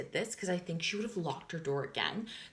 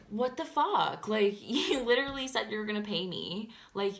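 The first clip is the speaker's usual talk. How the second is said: mock angry demand; 4 semitones higher, 4 dB louder than usual. Angry confrontation with roommate, retold.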